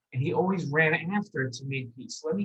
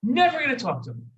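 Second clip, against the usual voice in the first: stubborn refusal; 6 semitones higher than usual. Acted. Sulky refusal to families.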